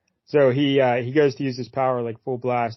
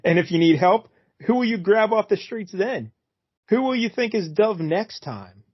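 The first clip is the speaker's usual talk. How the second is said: sexy Dove voice; 5 semitones higher than usual. Pretend. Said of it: "That was a sexy Dove voice".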